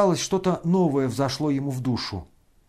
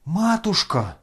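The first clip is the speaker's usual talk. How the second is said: high wailing cry; 6 semitones higher, 3 dB louder, slower than usual. A narrator's reading. Lebedev wailing as the money burns. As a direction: wail it out in dismay. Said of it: "всё ещё вопил Лебедев".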